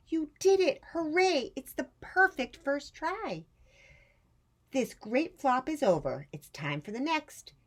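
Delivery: high, loud, delighted cheer; joyful cheer. Acted. Great-aunt cheering Rosie's first try, overjoyed. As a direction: celebrate the flop like a win.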